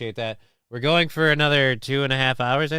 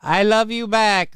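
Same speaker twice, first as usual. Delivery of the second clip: higher mock repeat; lightly imitated clip line; mild imitation of the clip; 8 semitones higher than usual. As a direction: parrot the clip dryly. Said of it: "doing a cringe accent".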